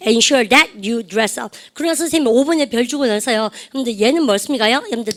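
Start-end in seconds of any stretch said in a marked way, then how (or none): 0.1-1.6 very slow, each word spaced for the class; drawn out so students can repeat after; very slow model phrase. Shown as a demonstration. Teacher modelling for class repetition, very slow. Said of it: "시작".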